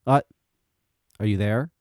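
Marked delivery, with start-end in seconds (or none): 1.2-1.7 breaking up over the phone; choppy phone line; bad connection. Real, not acted. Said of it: "you sound like you have a, bad connection".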